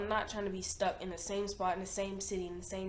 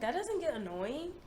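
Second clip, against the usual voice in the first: retold disbelief, higher and rising; incredulous question; 5 semitones higher than usual. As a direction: ask it as if you can't believe it. Retelling her doubtful question to sister.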